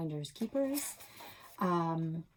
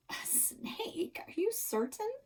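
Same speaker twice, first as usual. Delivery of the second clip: alarmed mom; 12 semitones higher, 4 dB quieter than usual. Acted. Mom alarmed about snake.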